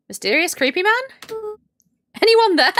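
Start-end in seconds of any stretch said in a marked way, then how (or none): 2.2-2.7 laughing. Real, not acted. Laughing while calling out.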